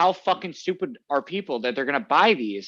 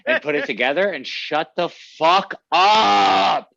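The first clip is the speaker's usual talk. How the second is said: builds to a laughing shout on "up"; laughing rant; 4 dB louder, slower than usual. Real, not acted. Ranting to friends about canned cocktails, laughing then shouting. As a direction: laugh through it, then yell the last word.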